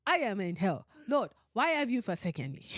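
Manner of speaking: mock African accent, solemn lament. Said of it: "say it in an African voice".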